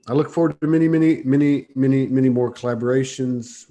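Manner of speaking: excited. Real, not acted. Emphatic heartfelt thanks.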